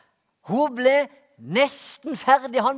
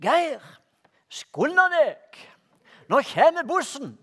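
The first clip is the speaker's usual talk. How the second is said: raised, higher calling voice, retold; mother's call; 4 semitones higher, 4 dB louder, slower than usual. Mother calling son in the cellar to catch the bus, raised call. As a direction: call him up from the cellar, hurry him. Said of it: "hun ropte".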